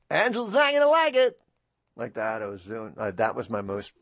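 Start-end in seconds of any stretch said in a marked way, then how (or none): 0.1-1.4 high, loud announcer voice; Ernie Anderson impression. Shown as a demonstration. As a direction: deliver it like the famous announcer. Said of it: "working on Ernie Anderson".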